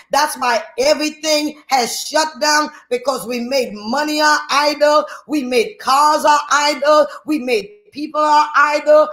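driving, high-pitched sermon delivery; full-force preaching. Real, not acted. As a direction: preach it hard in relentless, repeated exhortations.

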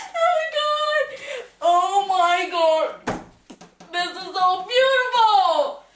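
slow, tearful awe; overwhelmed. Acted. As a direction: gasp it out, near tears. Overwhelmed by the beautiful house.

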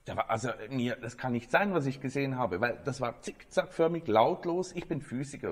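lightly voiced old physicist, amazed and rattled; baffled professor. Professor tells the journalist what he saw, mildly astonished.

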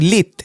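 লিত stopped firmly on a shut t; held closed ending. Shown as a demonstration. Teacher shows how sakin holds, sound shut off. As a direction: clamp the t of লিত, no release vowel. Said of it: "ধরে বসবে".

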